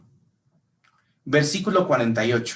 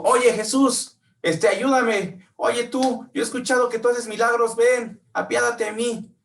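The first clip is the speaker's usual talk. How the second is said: desperate shouting; 9 semitones higher than usual. Retold or imitated. Blind man begs Jesus for help, desperate shouting. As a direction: beg at the top of your voice. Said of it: "No solamente dijo".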